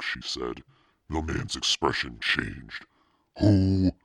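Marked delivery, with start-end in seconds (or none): 3.4-3.9 high, loud one-word question; loud, drawn-out challenge; sharp questioning cry. A narrator's reading. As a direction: call it out, suddenly demanding. Store owner's sudden reaction, expression changed.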